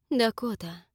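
usual speaking voice

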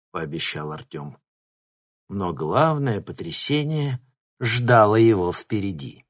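ordinary delivery

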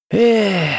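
a loud, high, disappointed 'eh' sigh; upset sigh. A narrator's reading. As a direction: let out a frustrated sigh. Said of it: "огорчённо вздохнул". (огорчённое «Эх!»)

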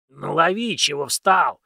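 put-on impatient old man voice. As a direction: hurry him up, gruff and old. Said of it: "нетерпеливо сказал учитель".

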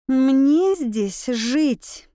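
«Мне здесь жить» pressed out slowly, each word weighted; with emphasis. A narrator's reading. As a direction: lean hard on «Мне здесь жить», slow and firm. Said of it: "с нажимом произнесла я".

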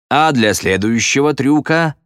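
a magician hyping up the audience; громкий выкрик конферансье; showman's call to the crowd. A narrator's reading. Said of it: "выкрикнул Эль Магнифико в толпу".

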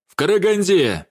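high, sharp cutting-off reply; curt retort. A narrator's reading. Vladimir dismissing the intruder, a curt cutting retort. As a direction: chop it off dismissively. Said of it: "отрубил Владимир".

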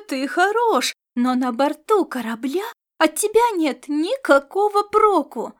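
loud, high angry tirade; a cat-captain shouting down her useless crewman; furious berating. Acted. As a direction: tear him apart, voice up and loud.

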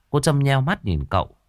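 plain reading voice

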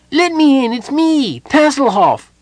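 very high, loud kender shout; urgent calling. A narrator's reading. Tass begs entry at the locked door, calling loudly. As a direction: shout to be let in, piping high.

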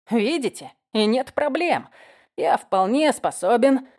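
put-on drunk, loud boasting; slurred cynical barfly. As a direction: drunk bravado, slowing down. Drunk man insists he's fine.

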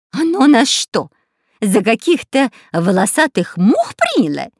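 angry outrage. A narrator's reading. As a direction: burst out offended. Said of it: "разозлился шпион Дырка".

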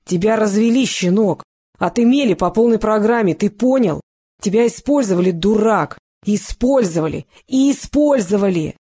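hammering every word with a steady yell; shouting. Acted. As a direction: keep shouting until it sinks in. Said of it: "а сам продолжил орать".

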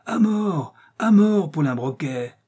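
high howled chant of the mob; howling crowd. A narrator's reading. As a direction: howl for his death. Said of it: "Les affiliés hurlèrent encore".

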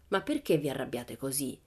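reproachful. Acted. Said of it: "in tono di rimprovero".

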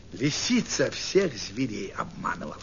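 ordinary delivery, nothing marked

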